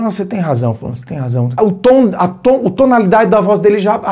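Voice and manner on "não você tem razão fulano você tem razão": calm conceding. Shown as a demonstration. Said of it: "E você fala".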